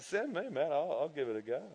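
soft, casual mock volunteering; lightly imitated willing mate; Andrew Flagsman. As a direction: offer it offhandedly, voice dropping. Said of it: "Andrew Flagsman".

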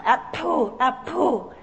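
apple with a puffed p; over-articulated apple. Shown as a demonstration. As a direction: push air on the p in apple. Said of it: "you feel the wind on your hand".

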